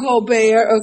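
"Gobert" repeated as go-BEAR, silent T; French-style Gobert. Shown as a demonstration. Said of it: "you can say Gobert".

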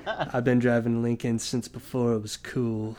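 low sultry voice through a laugh. Pretend. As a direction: purr it like a car ad. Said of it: "sultry voice".

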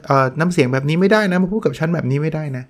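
touchy superior's indignant telling-off; mock indignation. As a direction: act affronted at someone's tone. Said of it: "มีอะไรกระทบนิดเดียวเลย".

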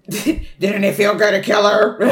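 put-on crazy voice from inside his head; creepy, taunting head voice. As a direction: re-enact the killer's crazy inner voice. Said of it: "you start hearing the crazy voice".

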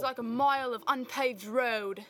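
mock Aussie accent, punched out; Australian insult accent. Shown as a demonstration. Daughter teases dad with an insult, mock Aussie accent. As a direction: deliver a playful Aussie-accented jab. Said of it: "I think I have an Australian, um, uh, insult".

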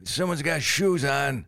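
high and slow, fake innocent; mock confused voice. Disguised comic teasing someone, slow high mock voice. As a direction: drag it out in a silly high voice. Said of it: "I just go".

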